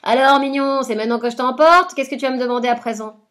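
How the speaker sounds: a sly witch gloating over her victim; witch's taunt. Acted. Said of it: "la sorcière est au rendez-vous".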